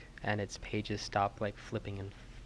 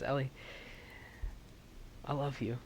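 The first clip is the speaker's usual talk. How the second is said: tender farewell; 4 semitones higher, 7 dB quieter than usual. Acted. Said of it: "and he says".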